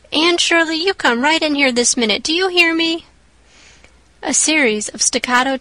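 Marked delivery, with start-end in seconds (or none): 0.1-3.1 put-on raised, higher call to a child outside. Marilla calls Anne in from the yard, raised and stern. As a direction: summon her in sharply from the window.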